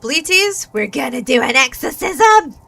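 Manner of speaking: eager announcement; excited. Real, not acted. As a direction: tell chat the news with delight.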